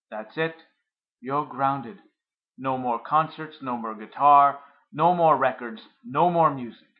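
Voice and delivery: loud, punched list of punishments; angry father. Acted. Father grounding son through door.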